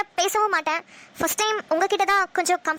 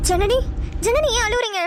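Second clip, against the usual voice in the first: louder, worried call of her name; anxious calling out; 3 semitones higher, 3 dB louder than usual. Real, not acted. Girl anxiously calls to crying Janani, louder.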